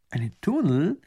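Tunnel asked with a rising, surprised lift; astonished echo. Acted. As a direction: repeat Tunnel in disbelief.

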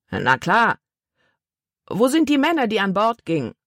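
gruff-mannered questioning, jumping up in pitch; demanding man. A narrator's reading. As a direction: demand an answer from the boy. Man demands answers from boy.

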